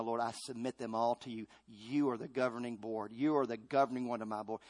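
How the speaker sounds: soft prayer. Acted. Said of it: "I say".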